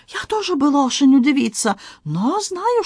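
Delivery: excited Frenchman in broken Russian, high; Antoine voice. Acted. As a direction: play the flustered Frenchman, pitched high. Antoine speaks.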